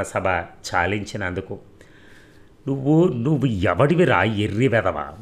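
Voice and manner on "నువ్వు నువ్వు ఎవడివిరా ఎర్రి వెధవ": a mild mock yell at the caller; angry shout. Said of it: "గట్టిగా అరిచాడు". (కొంచెం గట్టిగా అరవడం)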